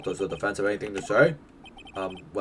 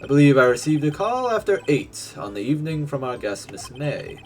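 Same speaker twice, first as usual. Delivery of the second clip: polite bellboy voice; 2 semitones higher than usual. Acted. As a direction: present it like a proud servant.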